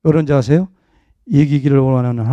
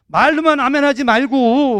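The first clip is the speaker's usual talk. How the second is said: slow, higher teasing jab; teasing rebuke; 9 semitones higher than usual. Retold or imitated. Pastor teasing a deacon about empty amens, slow and higher. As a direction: poke fun with a slow, higher put-on voice. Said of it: "그래서 내가".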